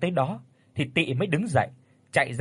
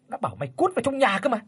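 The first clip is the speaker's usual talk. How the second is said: fast, higher shouting order; angry yell; 8 semitones higher, much faster than usual. A narrator's reading. Father yells at his son to get inside, furious shout. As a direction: bark it out in fury. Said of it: "Lão Hoạch quát lên".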